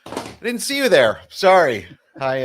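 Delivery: ordinary talk, nothing marked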